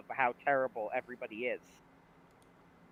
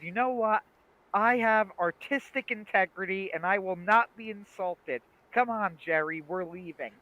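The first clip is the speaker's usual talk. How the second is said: higher-pitched offended outburst, retold; imitating wounded pride, emphatic; mock indignation; 5 semitones higher, 3 dB louder than usual. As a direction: play an affronted artist storming off. Acting out George's indignant walkout.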